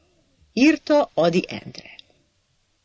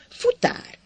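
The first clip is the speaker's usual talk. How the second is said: very high, soft unvoiced whisper; 5 dB quieter than usual. Sajó whispering the word courier to Hacsek. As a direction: breathe the word secretively.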